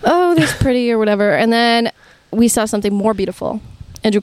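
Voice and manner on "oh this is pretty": higher, lightly put-on admiring remark; token admiration. Students shown artwork in class, offhand admiration. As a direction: lift the pitch in offhand mock appreciation. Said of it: "we're like".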